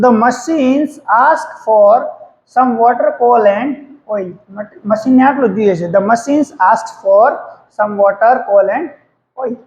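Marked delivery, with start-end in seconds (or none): 0.1-4.3 slow dictation. Shown as a demonstration. Teacher dictates answer slowly. 5.9-9.5 slow dictation. Shown as a demonstration. Teacher dictates answer slowly.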